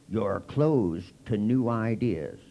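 slow, judgmental pronouncement; preachy accusation. Retold or imitated. Group member slowly accusing him of being closed. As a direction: hand down the verdict slowly. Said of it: "they'd go".

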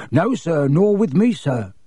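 rising eagerly on me, then bowing low; obsequious and eager; fawning agreement. Acted. Borgin agrees with Malfoy while bowing deeply, fawning. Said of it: "with a deep bow".

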